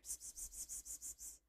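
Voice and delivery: whispered psst calls to a cat; unvoiced psst to lure the cat; cat-calling psst. Real, not acted. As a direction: call the cat with soft hissed psst sounds.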